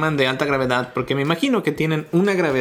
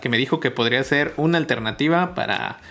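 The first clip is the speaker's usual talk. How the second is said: shivering from the cold; talking while freezing cold; teeth chattering; 3 semitones higher than usual. Real, not acted. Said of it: "me estoy muriendo de frío".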